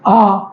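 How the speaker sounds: long open "आ", tongue drawn slightly back; drawn-out "आ" made toward the throat; long back vowel. Shown as a demonstration. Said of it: "थोड़ा सा movement होता है".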